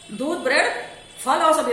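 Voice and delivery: दूध, bread with a rise, then फल और सब्जी; comma pauses. Shown as a demonstration. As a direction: break after bread, फल और सब्जी joined. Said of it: "हम रुक रहे हैं बोलते समय".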